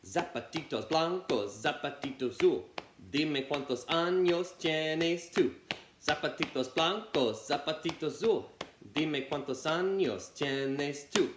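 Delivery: a light bouncy rabbit chant. Shown as a demonstration. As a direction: bounce through the Spanish rhyme. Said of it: "That was the rabbit".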